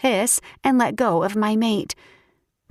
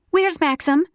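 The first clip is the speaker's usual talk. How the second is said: excited; 8 semitones higher than usual. Acted. Bursting into office.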